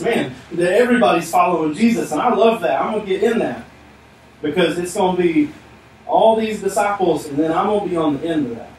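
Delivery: enthusiastic. Acted. Man wanting to jump into the disciples' status, enthusiastic. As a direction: voice a man excited to join the crowd. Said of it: "this man runs up enthusiastic".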